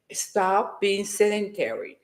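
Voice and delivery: deliberately calm advice. Shown as a demonstration. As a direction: say it calmly, not hyped. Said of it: "this is the calm me".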